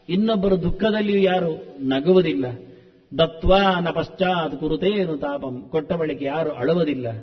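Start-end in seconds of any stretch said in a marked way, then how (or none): 3.2-5.7 slow, measured chanting of the verse; slow Sanskrit recitation. Shown as a demonstration. Preacher reciting the verse line to listeners, slow chant. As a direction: draw out the shloka line evenly.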